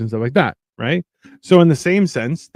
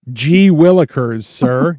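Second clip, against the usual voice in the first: put-on wholesome 1950s kid; 5 dB louder, slower than usual. Old-timey wholesome banter.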